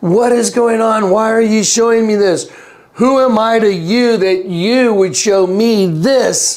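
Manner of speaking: mock yelling. Retelling a moment of panic, imitating yelling at the ceiling. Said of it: "And I was yelling at the ceiling".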